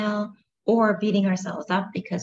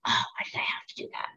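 self-reproaching whisper; 8 dB quieter, faster than usual. Acted. Yelling inward at oneself.

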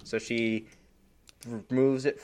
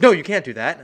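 alarmed nurse; 7 semitones higher, 11 dB louder than usual. Retold or imitated. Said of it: "She's like".

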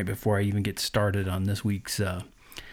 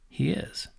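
a breathy hushed whisper, higher; 5 semitones higher, 5 dB quieter than usual. Real, not acted. Preacher echoing to listeners in an awed whisper. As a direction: let the words drop to a whisper of awe. Hushed echo of his declaration.

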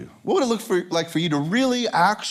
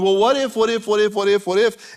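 higher, insistent repeated fretting; mock worked-up worry; 3 semitones higher, 3 dB louder than usual. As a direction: spin up into a theatrical panic. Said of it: "And we get all worked up and we're so afraid".

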